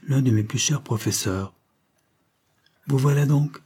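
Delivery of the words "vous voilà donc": a light hint of a quavering yet assured old teacher; old professor's voice. Old professor greets his former pupil, a hint of quaver. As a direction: greet him like a sure old master. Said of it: "de sa voix à la fois chevrotante et infiniment assurée".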